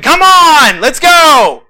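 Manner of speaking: high, loud coach shout; mock coach yell. Coach yelling at wrestlers, a hammed-up shout. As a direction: bark it like a coach at practice. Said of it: "And the coach is yelling".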